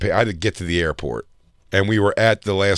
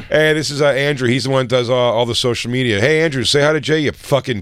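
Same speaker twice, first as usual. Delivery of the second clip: rowdy crew intro; 5 semitones higher, 5 dB louder than usual. Retold or imitated. Crew introducing coworker with insults.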